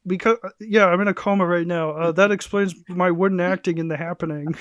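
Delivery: slightly high, goofy put-on voice; put-on coma voice. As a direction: play a dazed actress half-heartedly. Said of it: "You sound different".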